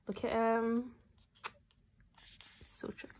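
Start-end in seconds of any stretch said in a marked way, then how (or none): 2.6-3.1 slow unvoiced whisper; slow admiring whisper. Real, not acted. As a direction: whisper it slowly in awe. Swooning over photo.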